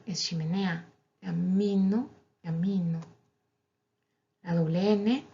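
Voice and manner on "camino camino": "Camino" with a held mm, then "camino" with a single m; double m contrast. Shown as a demonstration. Teacher contrasting the pair for learners. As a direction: hum the m longer on the first. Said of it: "Doble M".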